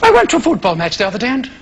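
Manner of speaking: affected English broadcaster, mostly low and quick; Nigel, radio preacher. Acted. Nigel telling listeners of his match, affected preacherly fashion. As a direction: parody a patronising religious radio talk. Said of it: "tell you all about God in this strange fashion".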